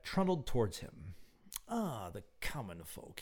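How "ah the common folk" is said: inner thought. A narrator's reading. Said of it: "he thought".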